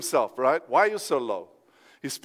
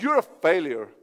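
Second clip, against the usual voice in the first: lightly voiced discouraging thought, lower; accusing inner voice; 4 semitones lower than usual. Preacher voicing the voice that says you're a failure, lower. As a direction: drop lower for the voice of self-doubt. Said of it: "you hear this voice says".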